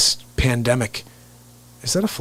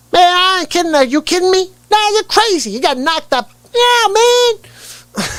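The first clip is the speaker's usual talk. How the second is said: very high, excitable comic voice; Byron DeCash; 4 dB louder, slower than usual. Acted. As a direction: squeal it like a wound-up movie sidekick. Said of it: "mixed with Chris Tucker".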